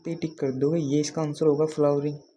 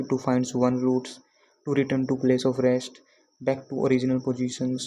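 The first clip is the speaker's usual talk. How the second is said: slow reading; much slower than usual. Shown as a demonstration. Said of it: "अंदाज़ा लगा सकते हो".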